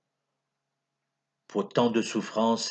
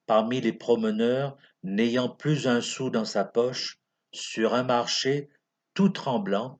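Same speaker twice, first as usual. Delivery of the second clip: measured, declaimed sentimental verse; lightly theatrical poem reading; poem recitation; 2 semitones higher, 4 dB louder than usual. Acted. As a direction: recite it line by line, with pauses.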